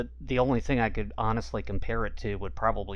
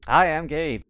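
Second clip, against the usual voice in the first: cheery greeting; 7 semitones higher, 8 dB louder, slower than usual. Real, not acted. Guest's exaggerated greeting.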